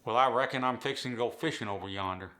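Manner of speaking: light Appalachian "I reckon" and "yonder"; Appalachian accent. Shown as a demonstration. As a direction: model sentence in a relaxed Appalachian voice. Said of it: "Record yourself saying the following sentence".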